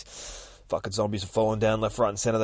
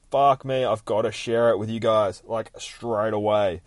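loud, raised excited outburst; retold excitement; 5 dB louder than usual. Reader recalls finishing the comic, loud excited urge to share. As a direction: blurt it out louder, eager to share. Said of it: "I was so excited".

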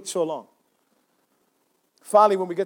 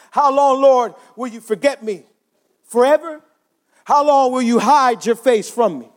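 mildly raised, pleading scripture reading; plaintive lament; 4 semitones higher than usual. Acted. Preacher reads David's lament to church, plaintive. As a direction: cry it out to God, pleading.

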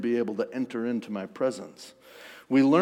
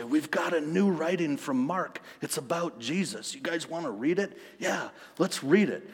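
higher-pitched, lightly acted excitement; mock-eager chatter, pitched up; eager friends; 3 semitones higher, 4 dB quieter than usual. Acts out eager friends with news.

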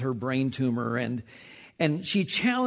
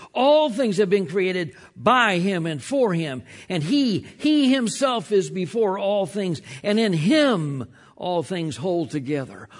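preaching. Acted. Pastor preaching Colossians to the congregation, forceful. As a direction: build it like a preacher proclaiming.

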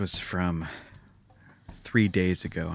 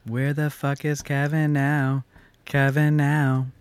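loud shout; 6 semitones higher, 4 dB louder than usual. Acted. Shouting tweet like movie line.

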